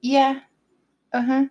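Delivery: mock grudging okay; sarcastic agreement. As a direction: agree while clearly not meaning it.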